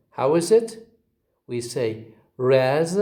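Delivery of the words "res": "res" set apart as the lesser beat; secondary stress. Shown as a demonstration. Teacher splits up resignation, "res" as secondary stress. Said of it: "with a secondary stress".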